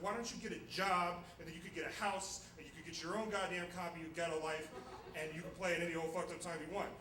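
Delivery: retold angry rant; mad outburst. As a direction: scold him in a fed-up rush. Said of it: "I got so mad".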